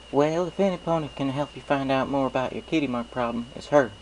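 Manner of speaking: folksy farm pony, friendly and sure; Applejack. Acted. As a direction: play a cheerful country mare with a twang. Applejack's voice, retake.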